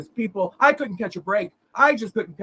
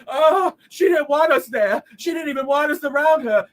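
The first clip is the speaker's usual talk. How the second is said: mocking her words; 3 semitones higher, 4 dB louder than usual. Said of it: "But she's gonna say".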